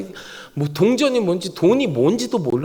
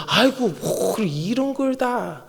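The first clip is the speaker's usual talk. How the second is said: slow, drawn-out bashful thanks; grateful demurral; 2 semitones higher, 3 dB quieter, slower than usual. Acted. Someone receives a gift from the pastor, grateful demurral. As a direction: protest slowly while happily accepting. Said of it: "고맙다는 뜻이죠".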